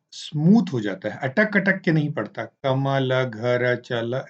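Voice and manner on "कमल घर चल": halting, one word at a time; choppy word-by-word reading. Shown as a demonstration. Teacher demonstrating the wrong way to read, choppy. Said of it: "ऐसे नहीं पढ़ता".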